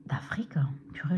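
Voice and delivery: muttered to herself. Real, not acted. Forgets country name, mutters.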